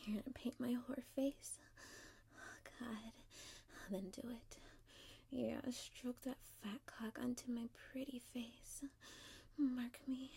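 soft, teasing whisper; hushed whisper. Acted. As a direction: whisper it close and inviting. Intimate teasing, softly.

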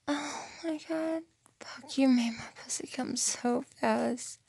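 high, voiceless, breathless whisper. Real, not acted.

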